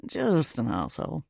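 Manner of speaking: put-on British-accented stranger; deadpan reply in a British accent. A narrator's reading. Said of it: "He has this British accent".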